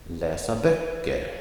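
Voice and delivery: läsa light and quick, böcker stressed; phrase stress. Shown as a demonstration. Teacher modelling phrase stress for students. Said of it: "the emphasis comes on the last significant word".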